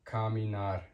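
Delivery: "caminar" with a k at the start; Spanish "caminar", hard k opening. Shown as a demonstration. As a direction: say "caminar" as kah-mee-NAR.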